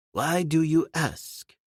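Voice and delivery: put-on high, slow, amazed old gentleman; excitable old Mister Philander. Philander marvels at Tarzan driving him, astonished old gentleman. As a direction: marvel at it all like a fussy old scholar.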